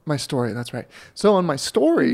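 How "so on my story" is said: higher, put-on announcer delivery. Real, not acted. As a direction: launch the story like an announcer. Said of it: "Your announcer voice".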